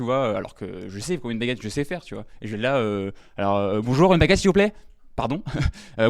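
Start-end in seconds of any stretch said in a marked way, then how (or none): 3.8-4.7 high, loud nervous bakery order; squeaky panicked request for bread. Retold or imitated. Stammering comic asks the baker for bread, tense and high.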